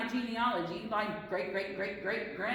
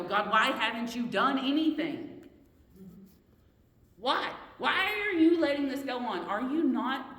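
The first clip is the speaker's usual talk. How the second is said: louder, anguished why, pressing each question; a believer's louder, exasperated complaint to God; pleading cry to God; 5 dB louder than usual. Pretend. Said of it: "how often do we want to go".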